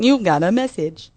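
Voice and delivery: flat robotic computer voice. Pretend. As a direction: read it like a computer announcement. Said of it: "you know, robot voice".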